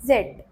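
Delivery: जेड called out loud and clear; name the letter जेड on its own; teacher reciting the last letter; letter name demo. Shown as a demonstration. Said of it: "So, A".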